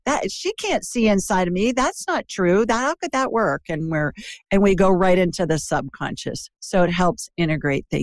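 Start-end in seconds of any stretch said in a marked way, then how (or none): 0.1-3.6 higher-pitched mock disbelief; skeptical rational mind. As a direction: act out a doubter's objections. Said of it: "the conscious mind, saying".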